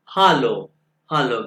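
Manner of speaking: हालो with a long open "aa" first vowel; German pronunciation demo. Shown as a demonstration. Teacher shows students the A sound, हालो said with open aa. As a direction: say हालो as "HAA-lo", stressing the aa. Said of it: "ये आ है इसलिए वो हालो है".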